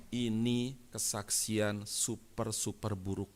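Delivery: very slow, measured verdict; weighty, drawn-out condemnation; deliberate rebuke. Retold or imitated. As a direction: spell out the rebuke slowly. Retold public rebuke of testimony.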